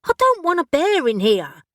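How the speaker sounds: high and loud in alarm; horrified protest. Acted. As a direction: recoil at the thought of a bear. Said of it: "eyes widened with horror".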